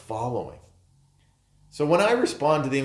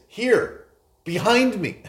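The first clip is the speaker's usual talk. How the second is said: higher, louder emphatic summons; emphatic call; 9 semitones higher, 4 dB louder than usual. Retold or imitated. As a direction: call them sharply to come behind. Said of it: "it's very, uh, emphatic".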